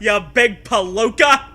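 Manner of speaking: loud, far, hammed-up old-timey jeer; sling it like a cartoon tough; palooka taunt. Friends joking, reviving the insult in a hammy loud voice. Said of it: "We need to bring palooka back".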